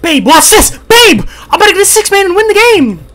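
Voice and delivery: high, loud, hammed-up bragging; mock-excited show-off yell; mocking an overconfident teammate. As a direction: shout it as an imitation of a cocky player. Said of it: "He's like, he's like, he's like".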